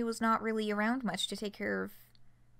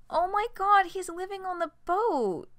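shocked; 9 semitones higher than usual. Real, not acted. Player shocked at reveal.

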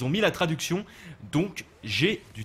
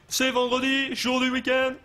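excited singsong; 9 semitones higher, slower than usual. Real, not acted. Cheering that the weekend is here.

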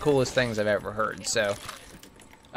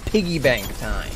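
announcer voice; 8 semitones higher, slower than usual. Retold or imitated. Drawn-out voice line imitation.

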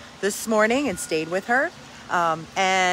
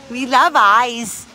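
excited; 6 semitones higher, 8 dB louder, much slower than usual. Real, not acted. Gushing about dog keeping eyes.

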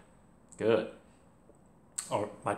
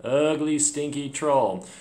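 playful mock disgust; 4 semitones higher, 3 dB louder than usual. Teacher mocks the troll playfully.

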